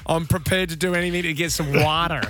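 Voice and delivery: mock American plea for water; American accent. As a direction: playfully put on an American accent. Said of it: "I'll change my accent".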